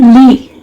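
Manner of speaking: "ली" said as one separate syllable; isolated syllable. Shown as a demonstration. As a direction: sound out "ली" on its own. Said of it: "intelligent में कितने syllable हैं".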